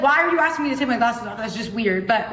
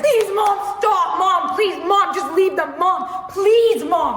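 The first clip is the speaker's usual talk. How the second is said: higher, whiny begging; pleading daughter; 5 semitones higher, slower than usual. Retold or imitated. Mortified daughter begging her mom to leave them, high plea. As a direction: beg your mom to stop, mock-pleading.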